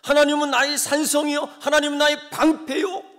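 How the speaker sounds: loud, high shouted declaration of faith; shouted confession. Retold or imitated. Israel shouting its faith before the fall, loud and high. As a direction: proclaim it at full voice. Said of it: "그렇게 외쳤는데".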